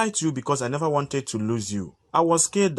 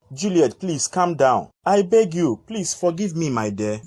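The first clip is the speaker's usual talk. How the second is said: begging, voice pushed up and louder; pleading; 3 semitones higher, 3 dB louder than usual. Acted. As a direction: plead with her to forgive you. Caleb begs angry Juliet.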